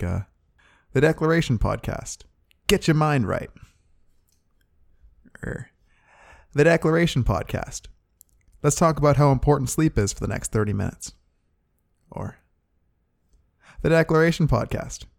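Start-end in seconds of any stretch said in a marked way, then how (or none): 0.9-3.5 higher-pitched show opener, falling on the title; mock podcast intro. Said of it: "some fake ones like". 6.5-11.1 higher-pitched show opener, falling on the title; mock podcast intro. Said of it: "some fake ones like". 13.8-15.0 higher-pitched show opener, falling on the title; mock podcast intro. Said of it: "some fake ones like".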